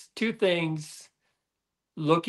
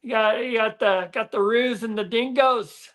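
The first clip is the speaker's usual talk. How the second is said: put-on a higher, hammy Australian accent; Aussie accent; 7 semitones higher than usual. Ending his Aussie accent bit for the host, a higher hammy Aussie accent. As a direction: warn of roos and dingoes like a cartoon Aussie. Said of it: "You, you're not too bad".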